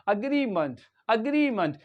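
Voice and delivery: "agreement" as uh-GREE-munt; careful pronunciation. Shown as a demonstration. Teacher repeats agreement after slipping, careful pronunciation. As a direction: model "agreement" with a schwa start and falling end. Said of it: "Sometimes I also do mistake".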